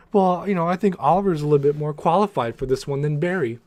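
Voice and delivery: snide imitation of Cisco; mimicking Cisco. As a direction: parody Cisco's know-it-all suggestion. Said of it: "you know, Cisco".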